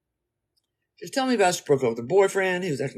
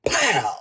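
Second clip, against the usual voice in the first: imitated gunshot.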